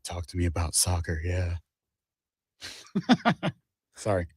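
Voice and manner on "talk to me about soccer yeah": low, soft come-on; breathy low flirt; seductive voice. Pretend. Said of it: "Seductive soccer voice".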